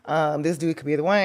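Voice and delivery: high, giggly hopeful gush; giddy laughing daydream. Retold or imitated. Guest recalls crushing on a Paris guy, giggling. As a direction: laugh through a swoony fantasy. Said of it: "and I was like".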